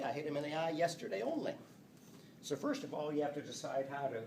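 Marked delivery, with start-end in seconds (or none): 0.0-1.5 quick line, final "only" hit; stress on only. Shown as a demonstration. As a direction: land on "only" at the end. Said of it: "When I insert this word "only".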